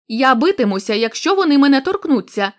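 defiant threat. Acted. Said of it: "сказав він".

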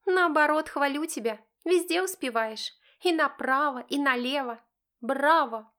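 high, mocking congratulations; snide teenage sarcasm; sarcastic praise. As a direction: needle him with fake applause. Sarcastic daughter mocking her father.

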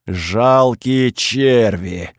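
slow, booming god inside a helmet; creaky bass from a helmet. Acted. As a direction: drag it out like a voice echoing in armor. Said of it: "прогудело из шлема скрипучим басом".

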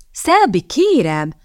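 high, startled protest; shocked exclamation. A narrator's reading. Boy protests his friend's threat, shocked. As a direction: cry out the name aghast. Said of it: "kiáltott fel Archie döbbenten".

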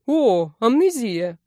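slow, delighted drawl of it; pleased with his discovery; joyful diagnosis. A narrator's reading. Troll diagnosing the dragon, joyful. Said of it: "радостно расширил диагноз".

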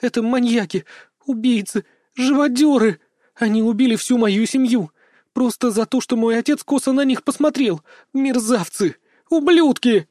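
high, loud, tearful screaming; hysterical accusation. A narrator's reading. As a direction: spit the insults out in despair. Captive girl screams accusations.

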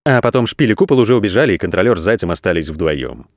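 plain reading voice

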